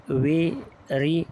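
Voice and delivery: वेरी split slowly into two beats, ve, ri; syllable by syllable. Shown as a demonstration. Teacher counting syllables for students, वेरी broken slowly in two. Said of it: "वेरी में कितने syllable है?".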